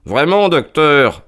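slow, sweetly overpolite; butter up the visitor with mock courtesy; honeyed. Holmes greeting the angry doctor, honeyed and slow. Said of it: "dit Holmes d'un ton mielleux".

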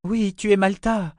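comforting confirmation in a high voice; reassuring. Acted. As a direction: soothe a dazed child, voice lifted. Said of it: "assura-t-elle".

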